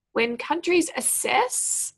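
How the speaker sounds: assess given firm weight; stress on assess. Shown as a demonstration. Teacher showing students which verb to stress. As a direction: lean on the word assess. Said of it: "assess is important".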